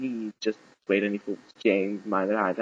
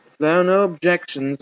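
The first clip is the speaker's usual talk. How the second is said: raised, ceremonious officiant voice; higher-pitched formal pronouncement; archbishop officiating; 6 semitones higher than usual. A narrator's reading. Archbishop addressing the wedding party, ceremonious.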